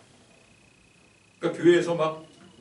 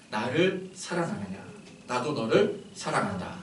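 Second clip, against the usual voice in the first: slow, soft question of love; tender loving words; 3 semitones lower, 6 dB quieter than usual. Shown as a demonstration. Jesus gently asking the disciple who denied him, tender. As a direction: ask it gently, like Jesus at breakfast. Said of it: "이건 어감이 다른 거죠".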